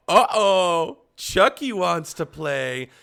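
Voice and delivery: loud, high creepy sing-song, slowing down; hammed-up doll taunt; mock Chucky taunt. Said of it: "was like".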